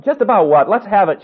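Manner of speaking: a parent cutting in, impatient; impatient shout. A narrator's reading. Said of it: "shouted another parent".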